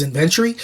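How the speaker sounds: "inventory" as "in-VEN-tree" with a rising end; questioned British pronunciation. Retold or imitated. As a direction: query it, stressing VEN in "inventory". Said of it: "inventory becomes inventory".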